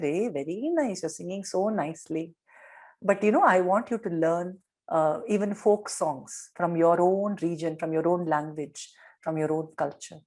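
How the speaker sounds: lightly voiced kind teacher coaxing; gentle encouragement. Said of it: "very gently Swami encouraged the child".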